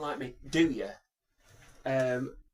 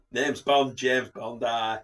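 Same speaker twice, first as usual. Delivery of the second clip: loud, lower Northern English Bond; Timothy Dalton, Northern accent; 4 semitones lower, 4 dB louder, much slower than usual. Acted. Co-host suggests Dalton, loud Northern accent impression. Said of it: "Who can do a Dalton?".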